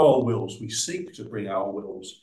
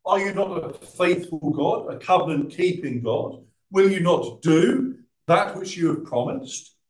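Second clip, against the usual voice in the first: pleading prayer; 5 semitones higher than usual. Retold or imitated. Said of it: "and say".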